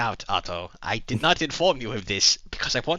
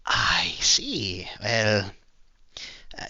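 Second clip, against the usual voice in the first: whispered; 4 semitones lower, much slower than usual. Acted. Character reacts unsettled.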